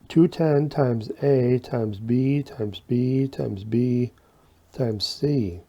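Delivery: whistly hissing s sounds; s with a slight whistle; whistling s. Real, not acted. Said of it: "Sorry for the whistle".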